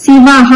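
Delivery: శివః with a clear ha at the end; శివః ending in an audible ha; visarga sounded as ha. Shown as a demonstration. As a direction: finish శివః on a breathy ha sound. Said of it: "శివః దగ్గర విసర్గాలు వస్తాయి, హ అని పలుకోవాలి".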